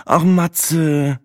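high, sighed reproach; sighing. A narrator's reading. Sina sighs at Matze's beeping phone, high-pitched. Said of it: "seufzte Sina".

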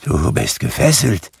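frightened, halting Scrooge; a touch of fearful quaver; trembling. A narrator's reading. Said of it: "sagte Scrooge zitternd".

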